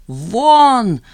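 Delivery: a loud, sharp shout. A narrator's reading. Jeanne orders the guest out, shouting. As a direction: throw him out with one loud word. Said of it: "закричала Жанна".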